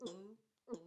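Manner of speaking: short, dark grunted uh; low uh sound. Shown as a demonstration. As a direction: drop the larynx on each uh. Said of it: "it's like this".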